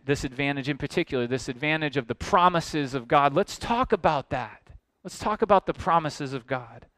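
voicing the Jewish objector. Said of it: "the Jew here would undoubtedly be saying".

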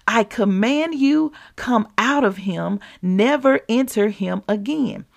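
a preacher's demo of rebuking a spirit; commanding rebuke. Shown as a demonstration. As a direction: order the spirit out with authority. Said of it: "That's what we do".

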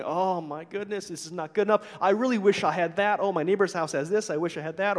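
acted grumbling; mildly whiny list of grievances; complaining. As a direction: play a habitual complainer, lightly. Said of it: "if you're always complaining".

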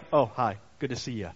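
casual, unexcited hello in a passing tone; offhand greeting. Retold or imitated. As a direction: toss off a bored little hello. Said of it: "he's not just gonna be like".

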